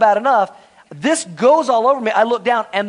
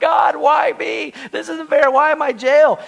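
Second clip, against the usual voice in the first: high, loud, whiny wail; mock crying prisoner; 8 semitones higher, 4 dB louder than usual. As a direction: whine to God like a sobbing drunk. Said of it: "you're crying your eyes out".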